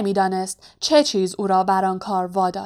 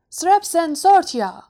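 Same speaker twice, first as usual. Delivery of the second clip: high, raised-voice incantation; shouted spell; 8 semitones higher, 3 dB louder than usual. A narrator's reading. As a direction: cry out the spell sharply. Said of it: "فریاد کشید". (با فریاد، مثل ورد جادویی)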